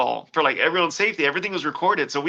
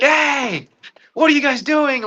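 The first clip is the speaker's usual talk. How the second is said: mock shocked girl; 9 semitones higher, slower than usual. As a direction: voice pushed high in a startled question. Drunk girl waking up shocked.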